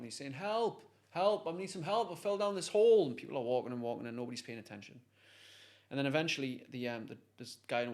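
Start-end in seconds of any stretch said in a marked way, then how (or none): 0.3-3.1 higher-pitched mock cry for help; imitated call for help. Man stuck down a hole calls passers-by, shouting for help. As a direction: act out calling up from a hole. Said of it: "he's shouting for help".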